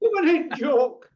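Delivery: words broken by real laughter; laughing. Real, not acted. Teasing Andy, laughing as he speaks. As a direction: laugh through the line. Laughing at his own joke.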